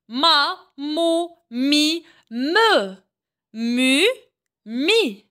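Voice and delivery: chaque syllabe en « j » détachée avec soin; syllabes articulées. Shown as a demonstration. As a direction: montre la syllabe, puis une pause. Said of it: "On termine toujours avec les syllabes". (syllabes en « j » dictées au professeur)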